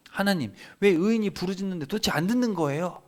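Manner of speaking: acted frustrated protest; arguing with God. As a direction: demand an answer from God. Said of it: "이렇게 막 따지는 거예요".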